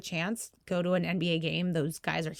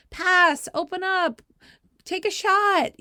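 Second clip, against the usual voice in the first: loud, high coaching shouts at the players; sideline yelling; 11 semitones higher, 6 dB louder, slower than usual. Retold or imitated. Mom coaching from the sideline, yelling loudly. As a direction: bellow instructions across the court. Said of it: "screaming like I always do at the girls".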